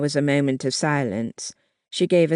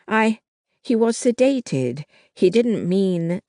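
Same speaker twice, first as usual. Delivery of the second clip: higher, hurried protest that breaks off; flustered, trailing off; 5 semitones higher, 3 dB louder than usual. A narrator's reading. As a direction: she panics and loses the thread. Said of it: "she trailed off".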